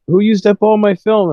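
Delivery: high-pitched mock kid's complaint; complaining kid. Retold kid discovers film gone.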